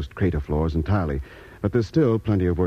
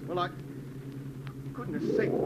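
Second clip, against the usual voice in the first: whispered; 10 semitones higher, 11 dB quieter than usual. Acted. Doc startled at the screen.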